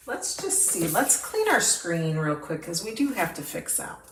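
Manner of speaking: talking with hiccups; hiccuping between words. Real, not acted. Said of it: "I have the hiccups".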